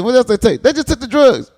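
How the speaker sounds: high incredulous quote. Retold or imitated. Telling the tale of the drug theft, asked high and disbelieving. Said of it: "I'm like".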